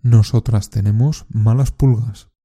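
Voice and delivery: slow, careful repeat-after-me sentences; deliberate teacher's drill reading; slow model drill. Shown as a demonstration. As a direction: say each line clearly for learners to copy. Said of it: "Repite después de mí. Intenta copiar la pronunciación y la entonación".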